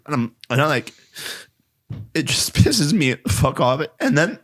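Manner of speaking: upset, fighting back tears; teary-eyed. Real, not acted. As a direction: voice rising toward tears. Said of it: "Take a break".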